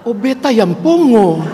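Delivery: laughing realisation. Retold or imitated. Husband realises he is deaf.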